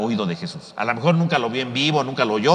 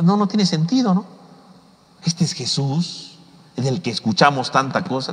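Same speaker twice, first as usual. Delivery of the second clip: scoffing. Retold or imitated. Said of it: "como diciendo".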